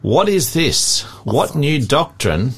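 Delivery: measured Bible read-aloud; reading scripture to a study group. Real, not acted. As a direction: read the verses out evenly and deliberately.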